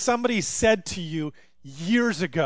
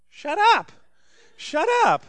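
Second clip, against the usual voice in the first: put-on high, loud toddler yelling shut up; toddler shouting; 10 semitones higher, 6 dB louder than usual. Nephew in the corner yelling at family, high toddler shout. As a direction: bark it like a bossy two-year-old. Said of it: "I hear a two-year-old voice".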